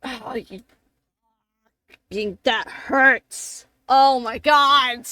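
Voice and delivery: slow, rising wail of pain; hammed-up agonized griping; pained complaint. Injured character complains of pain.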